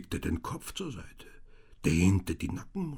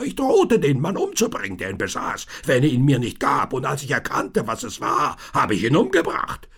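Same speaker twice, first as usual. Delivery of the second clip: louder, higher confession building to a roar; yelling ever louder; 5 semitones higher, 9 dB louder than usual. A narrator's reading. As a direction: push each phrase harder. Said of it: "brüllte immer lauter".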